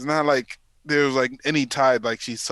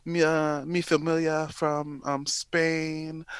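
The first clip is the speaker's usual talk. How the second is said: put-on Spanish accent, a bit higher, slowing on mi familia; mock Spanish accent; 4 semitones higher, 3 dB quieter, slower than usual. Mocking the wife faking a Spanish accent in interviews. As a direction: fake a Spanish accent to sound exotic. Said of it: "she's like".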